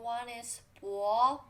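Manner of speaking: 薄 said slowly as bó with a rise; rising bó for 薄; bó reading. Shown as a demonstration. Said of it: "which have two pronunciation".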